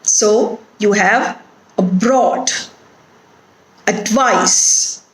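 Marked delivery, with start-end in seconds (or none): 1.8-2.5 abroad with weight on BROAD, weak a; stress on second syllable. Shown as a demonstration. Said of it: "put the stress on the root word". 3.9-5.0 advice with weight on VICE; weak ad, strong vice in advice; stress on second syllable. Shown as a demonstration. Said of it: "put the stress on the root word".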